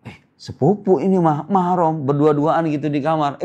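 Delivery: put-on a teen excusing being alone with a cousin; mocking excuse. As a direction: parody a teen brushing it off, mildly.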